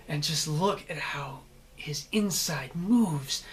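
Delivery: drawn-out, savoring menace; lightly voiced sadistic relish; slow relishing sadist. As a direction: linger over every word like a torturer. Voicing the sadistic character's thoughts.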